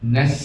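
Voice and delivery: "Nas" with a long running s; flowing sin. Shown as a demonstration. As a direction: let the s of "Nas" keep hissing on. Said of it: "Ya, mengalir ya".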